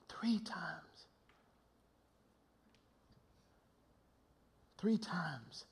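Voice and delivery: hushed whisper, heavy with awe; soft, slow dramatic whisper. Acted. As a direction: breathe the words as a whisper. Hushed dramatic repetition in sermon.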